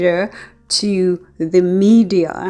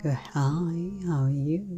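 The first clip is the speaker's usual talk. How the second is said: three AM voice; 11 dB quieter than usual. Shown as a demonstration. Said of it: "when I speak in my three A M voice".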